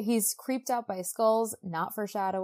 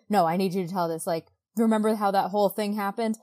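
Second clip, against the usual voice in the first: louder, mock-urgent pressing; imitating intense insistence; 5 dB louder, faster than usual. Woman pressing him to remember, mock intense. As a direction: push the point like an intense storyteller's heroine. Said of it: "intense really fast".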